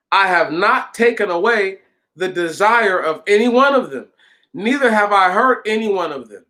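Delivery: mildly indignant scripture reading; righteous indignation. A narrator's reading. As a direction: read it as a firm protest of innocence. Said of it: "Moses was exceedingly indignant".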